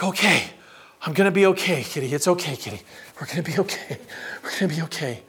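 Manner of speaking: quietly talking yourself calm; self-soothing. Retold or imitated. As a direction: comfort a kitty and yourself under your breath. Child soothing himself and the kitty.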